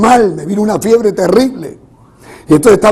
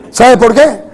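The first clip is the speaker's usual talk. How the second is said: emphatic sermon cadence; preaching. Real, not acted. Preacher assures congregation of victory despite illness, preaching. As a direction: proclaim it to the congregation with force.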